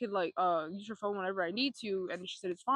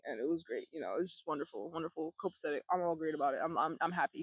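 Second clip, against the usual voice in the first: dry, low sarcastic praise; 4 semitones lower than usual. Acted. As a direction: pretend to be happy, dryly. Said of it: "being, like, sarcastic".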